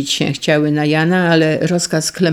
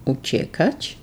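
plain reading voice

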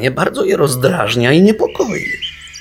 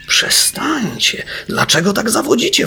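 higher, agitated mock yell; irritated yell; 10 semitones higher than usual. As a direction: snap at the wailing beavers. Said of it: "wrzasnął zdenerwowany fum".

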